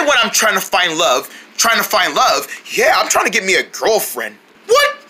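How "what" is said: shocked. Acted. Shocked at girlfriend news.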